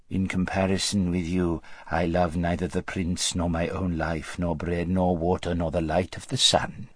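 lightly voiced servile courtier; a hint of flattery, pitched low; fawning vizier. Vizier flattering his ruler, mildly obsequious.

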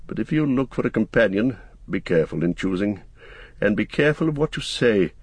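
a hint of a cautioning wizard; lightly voiced Gandalf, counselling. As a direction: give earnest advice, lightly in character.

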